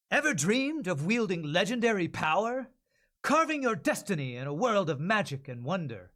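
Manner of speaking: lightly heroic trailer read; easy promo voiceover. Acted. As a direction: pitch the game to the listener. Second ad read take.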